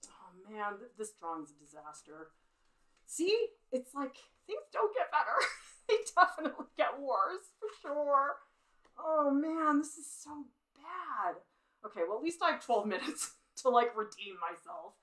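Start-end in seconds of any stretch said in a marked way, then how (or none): 3.1-11.4 higher, louder laughing groan over a bad drawing; laughing despair. Real, not acted. Artist to chat, laughing at how bad her drawing looks. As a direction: laugh it off as it gets worse.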